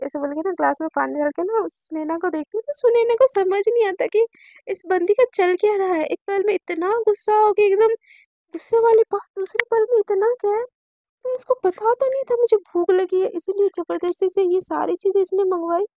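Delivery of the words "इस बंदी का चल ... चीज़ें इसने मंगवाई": higher-pitched puzzling aloud; a touch agitated, voice lifted as you wonder; mild bafflement. Acted. Sunaina wonders about the girl's sudden moods, mildly baffled.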